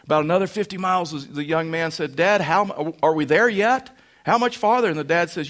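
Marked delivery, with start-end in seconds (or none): 2.2-4.9 put-on higher, louder impatient kid asking; whiny little boy. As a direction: play the restless four-year-old in the back seat. Little boy nagging on road trip.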